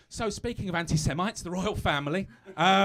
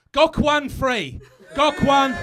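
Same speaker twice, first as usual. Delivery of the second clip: laughing; 8 semitones higher, 12 dB louder, much slower than usual. Real, not acted. Comic laughing at own joke.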